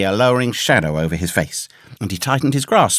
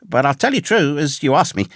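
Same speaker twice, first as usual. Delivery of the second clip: put-on high-pitched, urgent boyish answer; reply at once in a much higher voice; earnest young hero; 7 semitones higher than usual. A narrator's reading. Young Jim answering the castaway's question truthfully, high and earnest. Boy narrator answers in read story.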